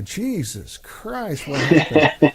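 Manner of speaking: slow drawn-out groan of dismay; mock despair, slowed right down; dismayed at the mirror. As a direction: stretch out the horror at his reflection. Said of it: "And then I see this and I go".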